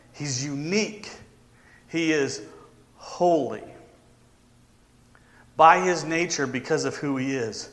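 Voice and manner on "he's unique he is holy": softer, lower awe; quiet reverent close; hushed reverence. Real, not acted. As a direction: drop it to a hush.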